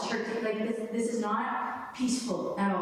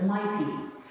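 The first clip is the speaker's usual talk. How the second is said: "My" pointed up, "peace" falling after it; stress on MY. Retold or imitated. Showing how the Lord said it, stress on "My". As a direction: make "My" the word that matters. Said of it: "Not like peace".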